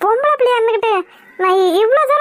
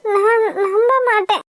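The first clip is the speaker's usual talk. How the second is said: crying refusal. Acted. Tearful refusal to believe him.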